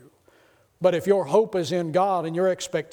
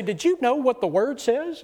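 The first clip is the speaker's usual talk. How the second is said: eager preaching; 6 semitones higher than usual. Retold or imitated. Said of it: "I'd preach my notes to her".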